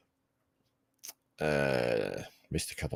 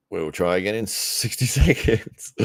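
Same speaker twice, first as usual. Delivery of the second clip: slow repeat with a laugh inside; chuckling through sixty seconds; amused repeat; 4 semitones higher than usual. Shown as a demonstration. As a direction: laugh at the stalled stream.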